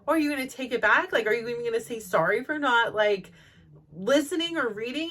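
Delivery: mildly imitating her own heated challenge; quick mock-angry questioning; indignant demand. Retelling her demand in argument.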